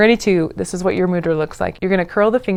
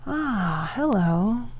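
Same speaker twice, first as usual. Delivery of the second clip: quiet relaxed ah, hello on the breath; soft sighing hello; 2 semitones higher, 6 dB quieter, much slower than usual. Shown as a demonstration. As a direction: sigh it out gently and greet yourself. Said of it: "Let out a few ahs or ha's".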